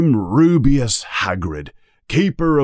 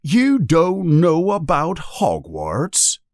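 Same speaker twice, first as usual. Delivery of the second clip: high, slow disbelief; shocked giant; 8 semitones higher, slower than usual. A narrator's reading. Giant questions the boy about Hogwarts, shocked. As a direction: ask it slowly, pitched up in shock. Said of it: "looking shocked".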